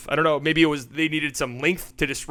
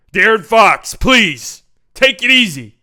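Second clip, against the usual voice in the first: loud, high mock plea; mock pleading; 5 semitones higher, 9 dB louder, slower than usual. Commentator begging De'Aaron Fox to take it easy, mock pleading. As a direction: call out in playful, exaggerated protest.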